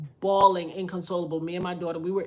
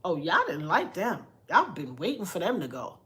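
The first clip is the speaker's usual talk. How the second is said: sarcastic aside. Retold or imitated. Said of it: "I'm like".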